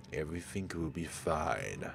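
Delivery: a hint of a creepy calm madman; calm eerie Jimmy. Jimmy calmly reassuring his friend before lighting gas, eerie.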